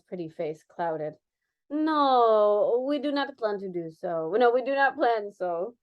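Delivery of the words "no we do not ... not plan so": firm. Acted. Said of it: "she replied firmly".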